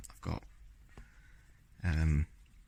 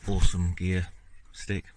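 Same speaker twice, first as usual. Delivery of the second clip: mock praise, a bit louder; sarcastic; 5 dB louder than usual. Real, not acted. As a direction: say it meaning the opposite. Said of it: "I'm being sarcastic".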